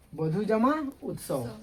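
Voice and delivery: बधु जमा उत्सव read slowly, word by word; slow reading demo. Shown as a demonstration. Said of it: "ऐसे हिंदी में इसको प्लस नहीं पढ़ेंगे". (धीरे-धीरे पढ़कर दिखाना)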